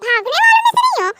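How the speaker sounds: high, fast, loud declaration; mock-fierce boast; defiant yell. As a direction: shout it proudly in a put-on voice. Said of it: "मैं भगाने वालों में से हूँ".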